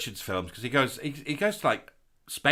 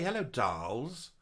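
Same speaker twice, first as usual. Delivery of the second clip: quoting Gabbers; 4 dB quieter, much slower than usual. Retold or imitated. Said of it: "Mister Gabbers say".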